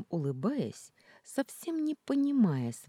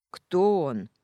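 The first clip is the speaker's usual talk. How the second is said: much louder, barked; 4 semitones higher, 10 dB louder than usual. A narrator's reading. Kostya demands who the man is, loud bark. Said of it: "громко рявкнул Костя".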